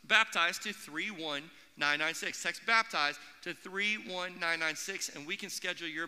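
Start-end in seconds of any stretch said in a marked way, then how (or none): 0.1-5.1 slow, spelled-out number; slow dictation. Shown as a demonstration. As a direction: read the number slowly so they can write it. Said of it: "text the word baptize".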